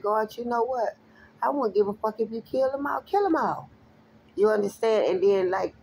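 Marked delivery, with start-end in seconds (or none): 0.0-3.7 higher-pitched mock-angry plea to God, peaking at the end; retold mad plea. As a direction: imitate yourself getting mad at God, pitch climbing. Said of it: "then I get mad, I be like".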